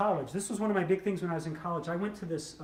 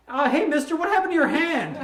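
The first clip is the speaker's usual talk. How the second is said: put-on little girl's voice; 8 semitones higher, 7 dB louder than usual. Six-year-old girl voiced in story.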